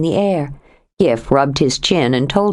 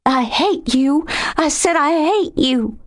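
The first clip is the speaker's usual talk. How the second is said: desperate protest; 9 semitones higher than usual. A narrator's reading. Lexi protesting, aroused.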